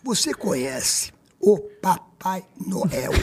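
very slow, measured, word by word; grave slow question. Retold or imitated. He calms weeping Xuxa before his revelation, slow grave question. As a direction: spell it out slowly for dramatic weight.

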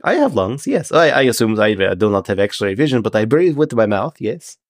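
prim, stilted fish-man correcting someone; a hint of a formal, careful sea creature; measured, mildly indignant Triton; lightly voiced Triton. Game master plays the Triton.

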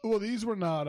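words pushed out on a burp. Real, not acted. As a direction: talk through a burp. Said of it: "for the live burp".

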